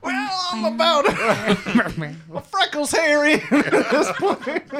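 laughing through the words; words broken up by laughter. Real, not acted.

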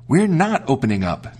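put-on high, defiant children's voice; kids crying out. The kids refuse the wolf at the door, high and defiant. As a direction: refuse him like frightened little goats. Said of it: "they cried out".

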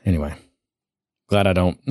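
ordinary talk

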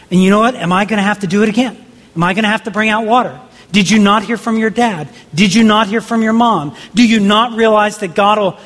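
weary anger at a people who never learn; exasperated scolding. Retold or imitated. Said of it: "in his moment of anger".

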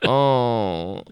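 flat wooden "Oh"; bad acting. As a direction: say it with no feeling. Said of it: "literally delivers the line like that".

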